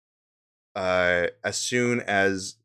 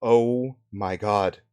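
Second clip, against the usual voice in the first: slow, drawn-out gasp of shock; shocked woman; 3 semitones higher, 6 dB louder, much slower than usual. Acted. Woman finds something by the tent, shocked. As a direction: let the shock stretch out. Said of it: "she goes".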